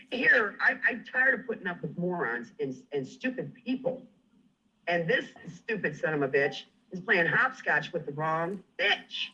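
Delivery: furious rant. Real, not acted. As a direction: explode at the stupid son of a bitch. Furious rant, voice spiking on bitch.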